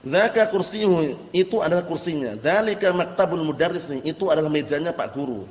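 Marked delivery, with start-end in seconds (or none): 0.0-1.3 slow emphatic model. Shown as a demonstration. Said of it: "Kita lihat lagi".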